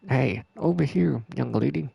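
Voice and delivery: put-on slow, drawling old man call; lightly voiced old man; old guy voice. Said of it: "That's like more of an old guy voice".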